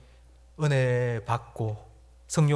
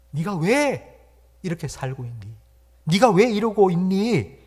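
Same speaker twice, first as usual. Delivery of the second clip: self-rebuke; 4 semitones higher, 4 dB louder than usual. Acted. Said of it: "자기 스스로를 지금 책망합니다".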